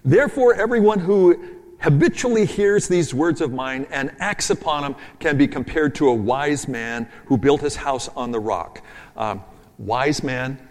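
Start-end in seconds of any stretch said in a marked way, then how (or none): 0.0-8.8 booming start to a scripture reading; forceful scripture reading. Acted. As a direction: proclaim it loudly, then settle. Preacher reading text with force.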